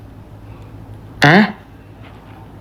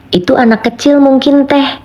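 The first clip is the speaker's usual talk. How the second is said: higher intonation reading; 6 semitones higher than usual. Shown as a demonstration. Streamer demonstrating to chat how the comment could sound, read higher. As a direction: chat line read higher, with "mungkin" stressed. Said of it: "Ini bisa aja begini nih".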